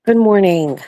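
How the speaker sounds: high "Good morning" with a K on the end; hard K ending. Real, not acted. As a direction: close "morning" on a clicked K, like "morningk". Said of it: "With a k-, special k at the end".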